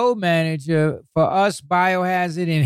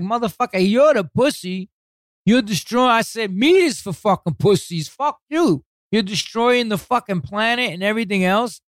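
retold telling-off; 5 semitones higher than usual.

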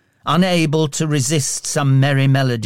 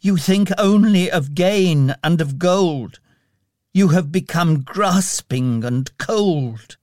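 acted hurt, higher-pitched young woman; sobbing reproach; 5 semitones higher than usual. A narrator's reading. Young lady reproaches her fiancé, tearfully. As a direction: accuse him through mild tears. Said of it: "she sobbed".

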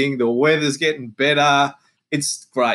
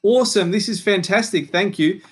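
fake delight; 8 semitones higher than usual. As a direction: overact being thrilled with the gift. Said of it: "He goes".

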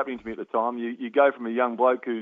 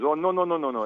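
imitated West Indian accent, higher-pitched run of no's; 5 semitones higher than usual. Psychologist silencing player at half time, West Indian accent. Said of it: "trying to do my West Indian accent".

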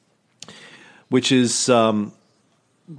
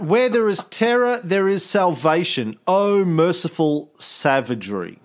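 higher, theatrical proclamation; mock grand Augustine; 7 semitones higher than usual. Podcast host quoting Augustine on violence, hammed-up and grand. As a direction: ham up a zealous saint's pronouncement. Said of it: "Augustine wrote".

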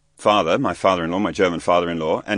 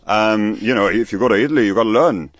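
father-in-law impression; 3 semitones higher, 3 dB louder than usual. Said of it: "my German father-in-law is like".

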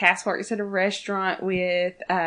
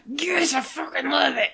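retold gushing; 5 semitones higher than usual. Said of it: "I was like".

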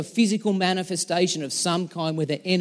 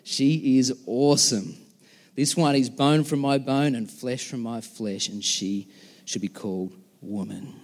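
awed wonder; 5 semitones lower than usual. Acted. Adam marvels at the new woman.

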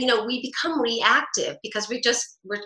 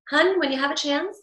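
tone goes up; 5 semitones higher than usual. Shown as a demonstration. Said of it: "the tone goes up and there's no, there's no prickly back".

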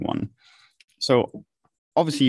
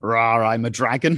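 deep gravelly dragon growl. Retold or imitated. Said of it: "this really deep, gravelly".

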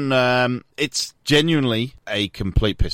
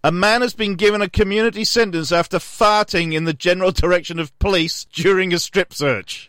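comic news read; 4 semitones higher than usual. Acted. Sports podcaster presenting an odd crime story, newsreading. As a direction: read the silly story out like a bulletin.

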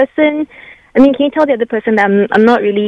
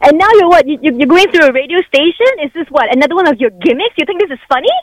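higher, exasperated angry scolding; 4 semitones higher than usual. Real, not acted. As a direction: accuse him, voice up. Scolding ex on the radio.

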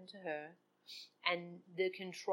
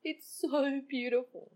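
tearful joy; 5 semitones higher than usual. Real, not acted. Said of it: "I am actually really full of joy".

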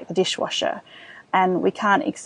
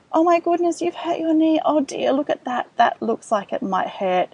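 caring parent voice. Shown as a demonstration. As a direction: soothe a hurt toddler, concerned but calm. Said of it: "can you see how we're trying to de-escalate".

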